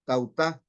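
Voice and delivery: tautá with the stress on the final U; Greek word tautá. Shown as a demonstration. Pastor teaching the church a Greek word, careful stress on tautá. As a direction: say tautá slowly, leaning on the last syllable. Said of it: "con acento en la U".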